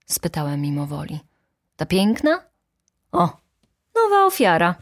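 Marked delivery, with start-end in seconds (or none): 1.8-4.7 high, loud theatrical outcry; shrieking up at the end; exclamation. A narrator's reading. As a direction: exclaim in scandalized alarm. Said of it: "wykrzyknęła baronowa".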